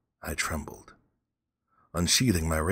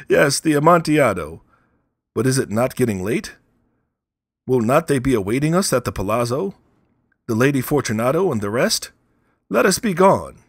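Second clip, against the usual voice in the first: high, loud pleading voice; desperate prisoner; 7 semitones higher, 9 dB louder than usual. A narrator's reading. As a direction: beg to be let out, forcing cheer. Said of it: "a sad voice".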